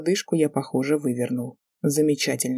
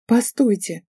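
high, loud call after him; girl calling after the departing professor; 5 semitones higher, 4 dB louder, slower than usual. Acted. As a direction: shout to make him stop. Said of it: "крикнула я".

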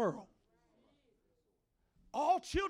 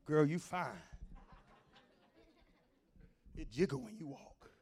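lowered-pitch catcall, lightly acted; lightly voiced flirt; 5 semitones lower than usual.

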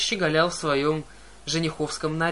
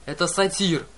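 yelled; 2 semitones higher, 4 dB louder than usual. Acted. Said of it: "завопила Клариса".

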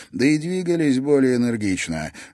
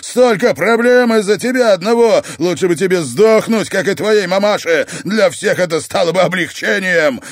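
screaming abuse; 9 semitones higher, 9 dB louder than usual. Acted. Oscar insulting Timofey.

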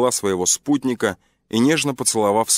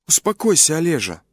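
calm him down like a loving wife; gently; 8 semitones higher than usual. A narrator's reading. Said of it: "мягко сказала женщина".

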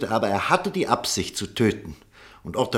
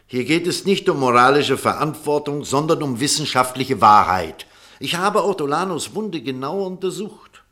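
louder, insisting on the facts; forceful insistence; 3 semitones higher, 6 dB louder than usual. Acted. Doctor rebutting his colleague before the court, forceful. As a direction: hammer home the scientific truth.

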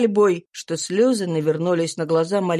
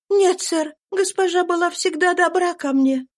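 higher, tense voice of a runaway mother; fugitive mother's voice; 11 semitones higher than usual. A narrator's reading. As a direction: voice the exhausted slave woman, pitched up. Eliza voiced. (беглая мать, голос выше, напряжённо)

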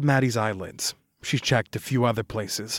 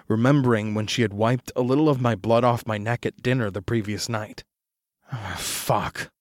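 plain reading voice

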